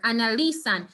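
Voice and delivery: analizan said anaLIzan, LI stressed and not san. Shown as a demonstration. Teacher modelling stress, not on the last syllable. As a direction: lean on LI in analizan. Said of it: "this is where the emphasis is".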